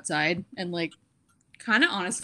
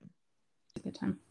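slow, whispered deadpan Puddy voice; hushed Puddy impression; 10 dB quieter, slower than usual. Echoing the friend's quote as a slow whispered Puddy.

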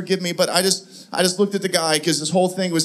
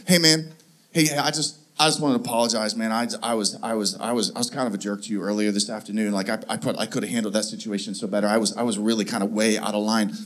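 low, soft sheepish mumble; sheepish apology; 12 semitones lower, 6 dB quieter than usual. Retold or imitated. Clerk apologizing to the guest, low and sheepish. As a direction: mumble it like an embarrassed guy saying sorry. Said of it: "he says to me, he's like".

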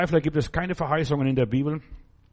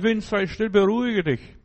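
high, firm command to the storm; commanding Jesus; 5 semitones higher than usual. Acted. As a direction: speak with calm authority.

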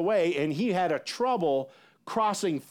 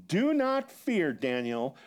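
slow, raised scripture voice, falling on the name; angelic reassurance; slower than usual. Retold or imitated. Angel to trembling Daniel, slow and solemn. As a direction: stretch it out solemnly, then drop. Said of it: "he said to me".

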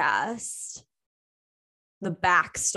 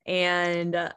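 close to tears. Real, not acted. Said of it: "I'm, like, about to cry right now".

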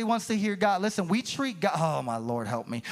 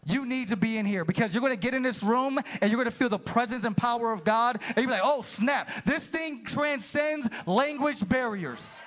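high-pitched, rousing preacher delivery; fervent preaching; 4 semitones higher than usual. Real, not acted. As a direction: preach it with rising fervour to the room. Preaching builds to fervour.

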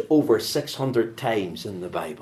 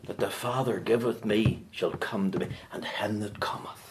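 hushed scripture; 7 dB quieter than usual. Acted. Scripture dropped to hush.

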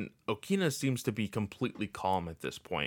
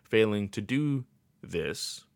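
slow, flat robotic read; slower than usual. Shown as a demonstration. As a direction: read it like a machine would. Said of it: "I don't know why I'm talking like a robot".

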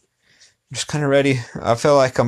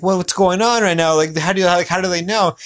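retold bewilderment; 6 semitones higher than usual. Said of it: "I was like".

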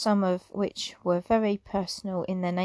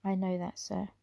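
softer, calm admission; said quietly; 6 dB quieter than usual. Acted. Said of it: "he said quietly".

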